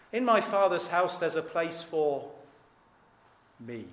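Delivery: long pause, then "me." set apart; stress on me. Shown as a demonstration. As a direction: hold back before "me." to point it up. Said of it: "Emphasis added from me".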